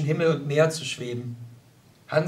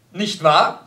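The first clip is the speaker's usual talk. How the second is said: loud, pleased with himself; proudly fish for agreement; 7 dB louder than usual. Acted. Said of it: "Erwiderte Hans stolz".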